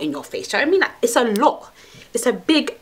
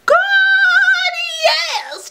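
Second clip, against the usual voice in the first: mock orgasm; slower than usual. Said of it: "I make her go".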